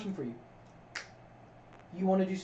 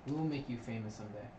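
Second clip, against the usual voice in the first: quiet earnest promise; 6 semitones lower, 9 dB quieter than usual. Real, not acted.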